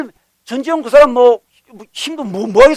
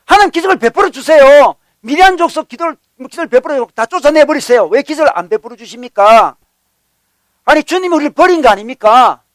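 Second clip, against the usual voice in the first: higher, acted-out protest to God; resentful pleading; 4 semitones higher, 3 dB louder than usual. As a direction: plead and accuse, imitating a grumbler. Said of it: "원망하는 겁니다".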